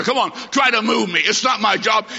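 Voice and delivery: defiant challenge. Retold or imitated. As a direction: throw the challenge back at him. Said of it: "Tell the preacher".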